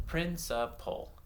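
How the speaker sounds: PRINCIPAL broken into three separate syllables; counted syllables. Shown as a demonstration. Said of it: "clap them out".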